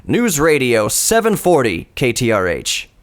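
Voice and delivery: crisp announcer voice, each syllable clear; radio station ID. Shown as a demonstration. Rehearsing the station ID over and over in the car, announcer voice. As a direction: drill the ID like a pro announcer. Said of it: "I would practice".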